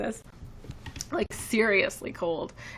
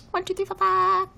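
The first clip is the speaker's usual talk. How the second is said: counting out loud; 11 semitones higher, 6 dB louder than usual. Real, not acted. Counting down for snap code.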